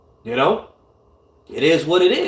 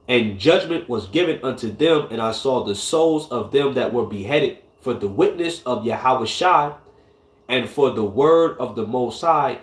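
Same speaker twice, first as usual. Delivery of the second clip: scripture reading. Acted. Reads scripture aloud.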